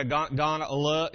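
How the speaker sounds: rough presidential impression; George Bush Senior. Shown as a demonstration. Preacher demonstrating his little presidential tics, roughly impersonated. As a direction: toss out a president's verbal tics. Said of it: "I'd do my little things and say".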